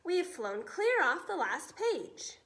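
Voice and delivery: frightened air chief telling the pilot they're lost; panicked officer. Acted. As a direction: spell out the disaster in dismay.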